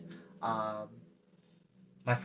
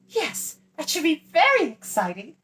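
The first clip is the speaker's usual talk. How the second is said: giggly; 8 dB louder than usual. Acted. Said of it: "she giggled again".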